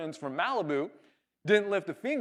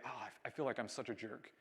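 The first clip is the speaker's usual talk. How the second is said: low, very soft retold apology; apologetic; 4 semitones lower, 11 dB quieter than usual. Man apologizing again to the upset surfer, apologetic. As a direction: own up quietly, voice dropped. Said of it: "I apologize again".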